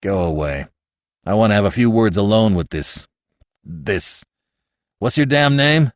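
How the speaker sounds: low, choked and indignant; barely keeping his temper; a lightly voiced overwrought father. A narrator's reading. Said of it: "in an overwrought manner".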